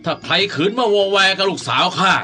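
angry master warning his servants; stern threat. Acted. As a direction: threaten them, with an indignant harrumph.

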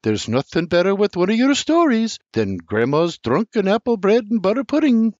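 Sarah declaring her pudding; proud declaration. A narrator's reading. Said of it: "Sarah declares".

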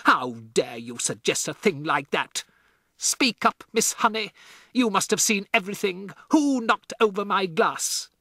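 high, loud outraged questioning; roaring. A narrator's reading. Headmistress demanding Miss Honey speak, loud high roar. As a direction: demand answers from the teacher. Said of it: "roared the Trunchbull".

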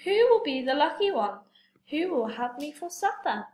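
mock fright. Toad pretends to be frightened.

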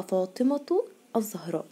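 "فاطمة الزهراء" joined as fātimatu z-zahrā'; connected reading, ة of "فاطمة" as T; taa when continuing. Shown as a demonstration. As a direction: link "فاطمة" to "الزهراء" with a sounded T. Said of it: "لو كملت كلامي".

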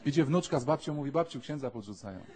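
telling the joke through laughter; laughing. Real, not acted. Priest laughing as he tells the granny joke. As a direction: chuckle while you tell it.

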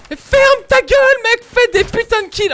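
furious yell; angry shouting. Real, not acted. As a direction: shout him down in anger. Yelling at teammate to shut up.

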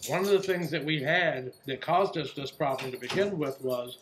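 talking through a mouthful; words round a bite of food; mouth full. Real, not acted. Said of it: "I'm gonna talk with my mouth full".

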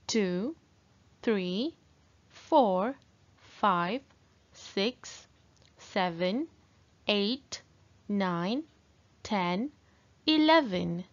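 slow, bright sing-song counting; teaching a child to count. Acted. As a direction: count aloud for young learners. Teacher drills counting for kids.

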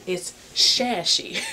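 slow, giggly "shashy"; laughing made-up word. Pretend.

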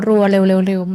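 imitating rushed, repetitive chatter; rapid-fire. Shown as a demonstration. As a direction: rattle it off like a nervous talker. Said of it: "คนที่พูด".

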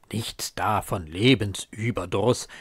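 ordinary delivery

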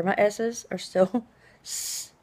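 "S's" hissed long like a snake; drawn-out s like a snake. Real, not acted. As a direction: stretch every s in "S's" into a hiss. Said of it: "I still sound like a snake".

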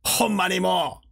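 lightly voiced grumbling Osaka geezer; mock old-man Osaka dialect. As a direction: put on a hint of a scolding Osaka grandpa. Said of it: "大阪弁のジジイみてえな".

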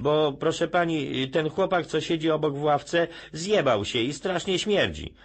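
high, slow schoolboy whine; child voice. Retold or imitated. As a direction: talk like a cheeky little boy.

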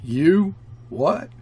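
narrated shout of outrage; incredulous shout. A narrator's reading. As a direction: fire back two shocked questions. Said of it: "shouted Carlier".

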